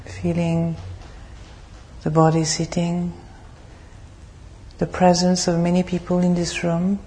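measured, even meditation guidance with long pauses; guided meditation. Real, not acted. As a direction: lead the group calmly into stillness, phrase by phrase.

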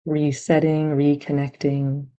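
calm, even meditation guidance with long pauses; guided meditation. Real, not acted. Meditation teacher settling listeners onto their anchor, calm and unhurried. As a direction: gently guide them into stillness, leaving long silences.

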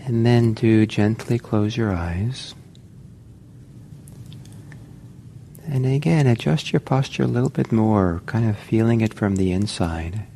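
calm, unhurried meditation guidance; measured instructions with space to settle; guided meditation. Real, not acted. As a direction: gently guide them into posture, leaving long pauses. Guides listeners into meditation posture.

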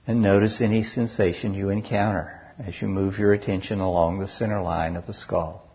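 unhurried guided body-scan voice, long pauses between phrases; guided meditation. Real, not acted. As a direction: guide listeners calmly through each sensation, leaving space after each.

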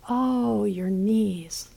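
soft, sympathetic echo of her moan; gentle echo. Acted. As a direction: soothe her by mirroring.

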